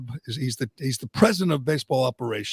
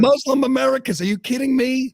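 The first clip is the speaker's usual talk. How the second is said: higher and louder, scoffing disbelief; incredulous; 11 semitones higher, 5 dB louder than usual. Real, not acted. Host mocking the outrage over a joke, incredulous. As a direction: throw it back like it's absurd.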